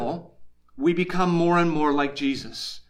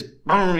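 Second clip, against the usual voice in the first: imitated gong strike; ringing gong. Shown as a demonstration. Preacher imitates a gong as it rings, ringing gong. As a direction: let "boom" hum on like a struck gong. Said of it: "it rings".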